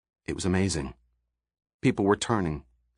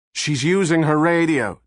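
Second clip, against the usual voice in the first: screamed; 6 semitones higher, 4 dB louder than usual. A narrator's reading. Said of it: "Todd screamed".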